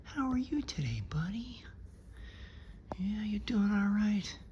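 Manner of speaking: soft cooing whisper to a pet; hushed, sweet greeting to a pup; talking to a dog. Real, not acted.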